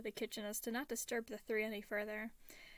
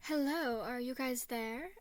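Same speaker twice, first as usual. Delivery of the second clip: small lisping voice; 2 semitones higher, 4 dB louder, slower than usual. A narrator's reading. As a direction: lisp it like a small child. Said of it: "a small voice lisped".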